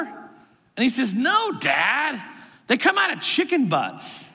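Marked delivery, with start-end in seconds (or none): 1.1-4.3 put-on higher-pitched little-kid voice; matter-of-fact kid, pitched up; four-year-old boy. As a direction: imitate a small child correcting his dad. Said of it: "Zeke is my four-year-old".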